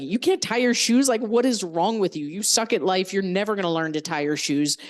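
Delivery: a lightly voiced mean grown-up; mock ridicule. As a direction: play the cruel adult belittling her. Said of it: "ridicule her".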